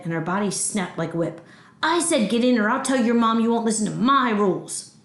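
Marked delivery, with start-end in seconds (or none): 1.8-5.0 raised-voice scolding; angry threat. Acted. Grandma threatening to tell mom, angry. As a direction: lay down the law crossly.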